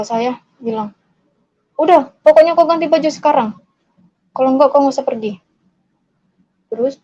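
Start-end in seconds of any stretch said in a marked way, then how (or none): 1.8-5.4 quick, insistent command; imitated angry father. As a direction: act out a dad's brisk ultimatum. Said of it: "karena bapak saya marah itu".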